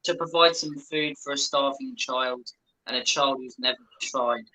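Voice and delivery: mock sincere appeal.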